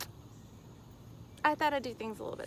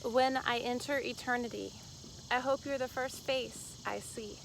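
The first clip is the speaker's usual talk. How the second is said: measured poem recital, line by line; poetry reading. Acted. Poet reads Somewhere from her book, measured recital. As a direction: recite it with pauses between phrases.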